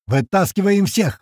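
high, drawn-out narrated shout; adrenaline yell. A narrator's reading. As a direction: order everyone out with urgency. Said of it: "ору я на диком адреналине".

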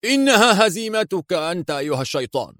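villain screaming as he draws a gun; roaring rage. A narrator's reading. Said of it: "وصرخ في غضب هادر". (صرخة غضب هادرة بصوت مرتفع)

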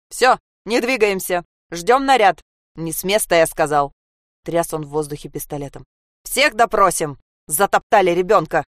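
loud policeman commanding the crowd; barked orders. Acted. The policeman shouts orders at the frozen crowd.

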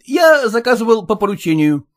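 a mild mock shout; husband to the caterer, a mild shout. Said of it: "закричал".

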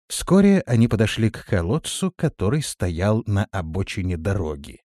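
ordinary delivery, nothing marked

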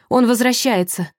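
high, urgent warning cry; alarmed shriek. A narrator's reading. Sasha warns Vadim that the captor is back, alarmed shriek. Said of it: "взвизгнула Саша".

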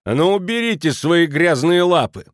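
high, loud angry rebuff; indignant. A narrator's reading. Mrs Schmidt throwing off Kraner's hands, indignant. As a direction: snap at him to let go. Woman groped, shoves him off.

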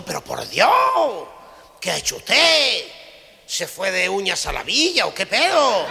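high, loud, slow horrified cry; doctor yelling in mock horror; shocked doctor. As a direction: recoil at the bloody fingers. Doctor shocked at bloody fingers.

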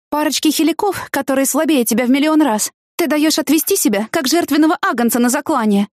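high, biting mock praise; sarcastic scolding. Scolding Danny for picking fights, high sarcastic voice. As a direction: needle him with fake admiration.

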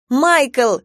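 loud, high call of the name; shout. A narrator's reading. Sister yells at brother grabbing the knife, loud. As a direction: yell his name to stop him. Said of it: "крикнула я".

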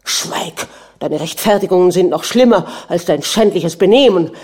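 a furious prince shouting his wife out of the room. A narrator's reading. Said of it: "schrie der Fürst".

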